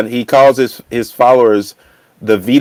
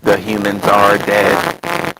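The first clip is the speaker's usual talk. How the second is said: slow, flat robot voice; 2 semitones lower, slower than usual. Pretend. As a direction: talk like a machine announcing doom. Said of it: "Somebody's got the robot voice going on".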